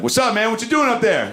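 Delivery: acted-out aggressive demand; aggressive challenge. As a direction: call out a challenge to a prowler. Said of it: "got real, uh, real aggressive".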